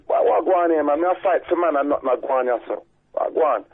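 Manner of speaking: put-on quoting the African preacher in a shaky Jamaican accent; a passing try at a Jamaican accent, not fully committed; poor Jamaican accent. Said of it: "that was a poor Jamaican accent".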